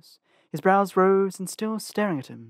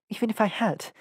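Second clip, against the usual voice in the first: plain reading voice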